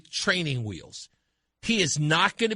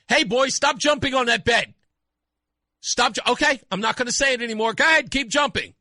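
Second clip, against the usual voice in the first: put-on exasperated parent warning a child, higher pitch; scolding parent; 4 semitones higher, 4 dB louder than usual. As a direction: call out a warning to a misbehaving kid.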